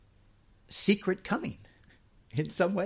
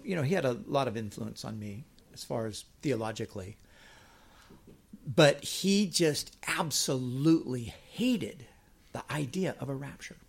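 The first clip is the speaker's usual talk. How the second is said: ordinary delivery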